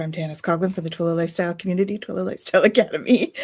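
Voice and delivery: lightly announcer-style show opening. Real, not acted. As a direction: open the show with a bit of an announcer lilt. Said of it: "announcer kind of voice I use".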